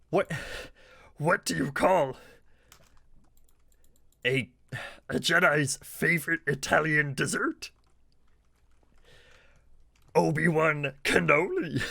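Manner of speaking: slow Yoda-style punchline, mildly put on; Yoda impression. Retelling Aaron's Game Grumps joke to chat, slow Yoda impression. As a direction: deliver the Jedi pun like Yoda, drawn out. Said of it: "I can't do the voice".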